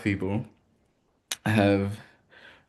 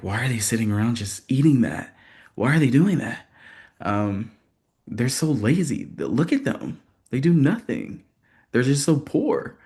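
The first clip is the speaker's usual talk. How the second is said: scornful, higher, mocking bigot; propagandist voice; 4 semitones higher than usual. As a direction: sneer at them like a propagandist. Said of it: "someone who was, uh, following and believing in propaganda would say".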